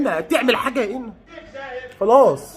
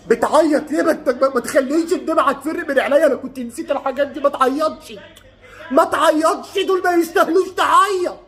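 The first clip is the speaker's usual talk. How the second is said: high-pitched, upset plea rising higher; tearful pleading; 5 semitones higher than usual. Real, not acted. Fan begging a crying boy not to make him cry too, tearful pleading. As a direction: beg him to stop, voice climbing.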